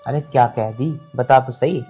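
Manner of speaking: demanding. Acted. Son demands what was said.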